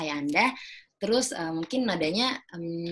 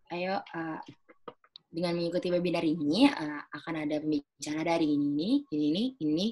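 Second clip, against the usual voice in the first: calm formal delivery. Shown as a demonstration. Inviting senior office workers to a webinar, calm and formal. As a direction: settle down and speak clearly. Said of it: "lebih tenang pembawaannya dan lebih jelas".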